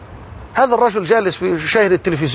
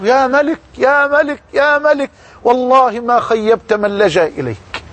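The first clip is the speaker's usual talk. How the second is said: retold shouting; 5 semitones higher than usual. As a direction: call out to the King with joy. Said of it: "فظل يصرخ". (صراخ فرح مرتفع)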